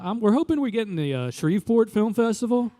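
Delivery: earnest hopeful director voice. Retold or imitated. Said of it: "And he goes".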